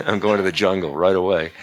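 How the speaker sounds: chuckling through the dutiful son's reply; laughing mock obedience. Son agrees to his father's exile order, laughingly mock-obedient. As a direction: play the obedient son, amused.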